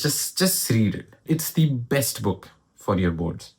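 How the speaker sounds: slow, drawn-out stress on "just read it" and "best book"; emphatic. Real, not acted. Tutor urging students to read the textbook, slow and emphatic. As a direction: press each word slowly, stretching "read" and "best". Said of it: "how to say this with more emphasis".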